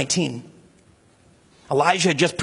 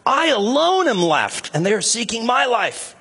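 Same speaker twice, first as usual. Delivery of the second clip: higher, pleading lament of a lonely prophet; despairing lament; 4 semitones higher than usual. Retold or imitated. Elijah crying out alone to God, despairing. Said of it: "He says".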